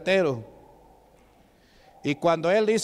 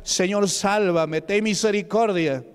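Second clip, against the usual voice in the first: desperate cry; 3 semitones higher, slower than usual. Retold or imitated. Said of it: "él comenzó a gritar".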